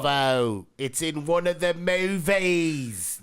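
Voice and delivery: slow, drawn-out attempt at Connery's Scottish accent; mock Scottish accent. Copying his friend's Connery line, slow mock Scottish accent. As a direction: stretch it out like a bad Connery. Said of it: "that's not even the right accent".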